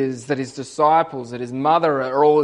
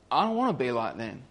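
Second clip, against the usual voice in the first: softer, quicker inner vow; murmured to himself, faster; quiet resolve; 4 semitones lower, 7 dB quieter, faster than usual. Retold or imitated. Thief's quiet realisation, then repeated.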